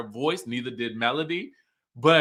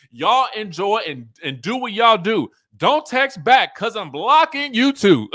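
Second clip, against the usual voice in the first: rising, louder, cracking up by the end; higher and louder, laughing through the last line; laughing reread; 5 semitones higher, 7 dB louder than usual. Retold or imitated. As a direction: reread the text as the laughter takes over. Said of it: "I didn't even realize it rhymed".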